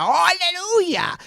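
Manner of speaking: high, slow mock cry of aleluya; mocking street preacher. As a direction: imitate her drawn-out shouted aleluya, mocking. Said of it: "La hermanita que predica allá y que grita".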